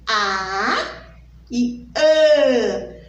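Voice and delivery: "A" open, then "An" through the nose; oral and nasal A. Shown as a demonstration. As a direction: contrast "A" with nasal "An". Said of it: "O som sai pelo meu nariz". ("A" aberto e "An" nasal)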